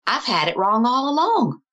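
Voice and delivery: imitating a father suddenly speaking plainly; clear as day. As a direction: retell it as a clear, sudden realization. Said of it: "as clear as day".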